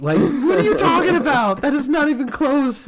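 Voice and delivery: co-host scoffing at the bad accent, mock incredulous. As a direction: play the co-host calling her out, teasing. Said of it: "her co-hosts were like".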